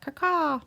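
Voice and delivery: imitated crow call, caw-caw; quick mock bird call, second caw drawn out. Shown as a demonstration. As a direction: make a bird's cawing sound. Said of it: "like, if a bird cawed".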